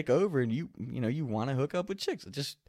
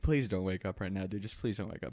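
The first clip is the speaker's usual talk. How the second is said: hushed plea; 5 semitones lower, 7 dB quieter than usual. Retold or imitated. Silent plea while roommate sleeps.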